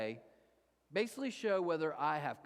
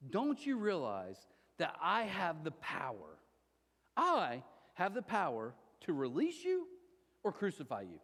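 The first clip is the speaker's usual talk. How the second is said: Pilate demanding. Retold or imitated. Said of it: "Pilate demanded".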